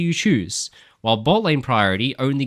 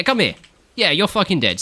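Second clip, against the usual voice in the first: ordinary delivery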